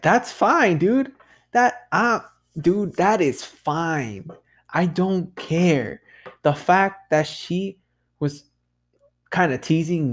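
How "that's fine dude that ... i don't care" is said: high, slow, mock-casual brush-off; dismissive retort. Retorting to the woman who blocked him, high and dismissive. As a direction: shrug her off, drawn out and high. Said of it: "And I was like".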